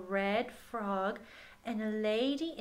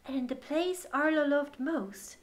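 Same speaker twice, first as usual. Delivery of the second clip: gentle picture-book reading voice; story narration; 2 semitones lower, 4 dB louder than usual. Acted. Reading the picture book aloud to a child, gentle storytelling. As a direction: read it to children at bedtime.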